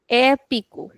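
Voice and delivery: "Épico" with the first e open and long; extended vowel. Shown as a demonstration. Teacher repeating the accent example, long open e. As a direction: hold the opening e of "Épico". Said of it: "we are extending the sound".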